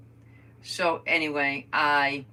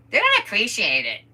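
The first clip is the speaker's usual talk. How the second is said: loud, higher-pitched exasperated outburst; retold scolding; 6 semitones higher, 11 dB louder than usual. Daughter telling mom she does too much, exasperated. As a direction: blurt it loudly, imitating exasperation.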